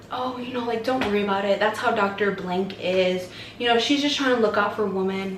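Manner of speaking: soft, soothing nurse imitation; retold reassurance. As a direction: softly play down the worry, as a retold nurse. Nurse soothing an anxious patient.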